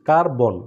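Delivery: কার্বন slowed into two long beats, কার-বন; teacher demonstrating the two syllables of কার্বন. Shown as a demonstration. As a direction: lean on each half of কার্বন. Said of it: "দুইবার দুইটা step নিতে হয়".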